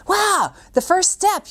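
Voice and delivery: high, drawn-out amazed "wow"; high-pitched delighted cheer; cheering parent. Acted. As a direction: marvel at a baby's first step. Acts out parent cheering baby's steps.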